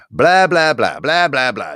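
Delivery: loud, high mock ranting; mocking blah-blah. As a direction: parody a ranting commenter, starting high and fading. Mimicking a hostile commenter.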